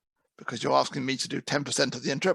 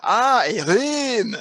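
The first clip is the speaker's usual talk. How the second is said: put-on higher, louder, slow French-accented voice; mock French accent; 8 semitones higher, 6 dB louder, much slower than usual. Clouseau finally understands the word room, slow mock French accent. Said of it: "This is Inspector Clouseau".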